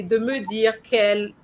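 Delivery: de me dire quelle cut off before était; a demo of the wrong break; chopped wrong way. Shown as a demonstration. Teacher mimicking the student's choppy phrasing. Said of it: "You can't really say".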